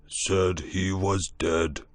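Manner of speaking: very slow creature words; slow beast voice. A narrator's reading. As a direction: drawl it heavily. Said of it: "gray thing".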